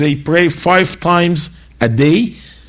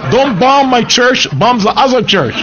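mock sarcastic quote; 10 semitones higher, 4 dB louder than usual. Mocking the hostile church members.

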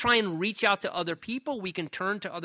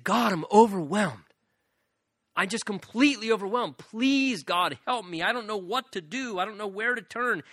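acted plea, moderately raised voice; crying out; 4 semitones higher, 3 dB louder than usual. Preacher voicing the overwhelmed psalmist's prayer, crying out. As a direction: plead as if overwhelmed, without full shouting. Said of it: "I cried out to God".

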